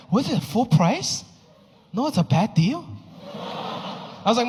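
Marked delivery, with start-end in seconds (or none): 0.1-2.9 imitating a thrifty mom, slow and disapproving; mock a mother scolding a bad buy. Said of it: "she was like".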